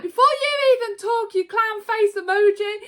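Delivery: high mock taunt; high, hammed-up taunt; mock insult. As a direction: sneer it like the Rock mocking Seth. Rock insulting Seth, retold.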